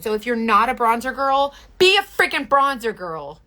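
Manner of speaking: pushy, bossy push to buy bronzer; abrasive. Real, not acted. To viewers scared of bronzer, an abrasive bossy push. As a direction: demand it like a bossy big sister. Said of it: "That was really abrasive".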